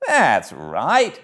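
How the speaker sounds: a hint of a concerned gentleman; kindly gentleman. Gentleman voiced in story.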